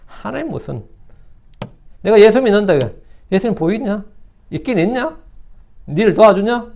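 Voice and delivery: mock disbelief, in short separate jabs; retold jeering at a believer; mocking scoff. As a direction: imitate a scoffer's sceptical questions. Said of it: "이래서 조롱할 때".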